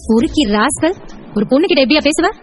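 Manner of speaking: mildly indignant rebuke; angry. Acted. Woman rebuking the harassing client, angry. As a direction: scold him with contained outrage. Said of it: "நீ கோவப்படும் போது".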